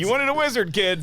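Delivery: hammed-up dying wizard for kids. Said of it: "impression of a dying guy is available for children's parties".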